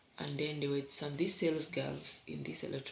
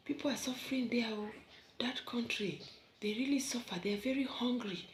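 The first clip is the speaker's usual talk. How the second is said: put-on higher, gossipy sales girl voice; mocking gossip; 7 semitones higher than usual. Kenyan woman imitating Nigerian sales girls gossiping about Kenya, higher and mocking. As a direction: mimic the girls pitying Kenya, half whispered. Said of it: "they were busy saying".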